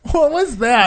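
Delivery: high, loud startled question; exclaimed disbelief. Real, not acted. Friend hearing about the decrepit plane, incredulous. Mock shock at old plane.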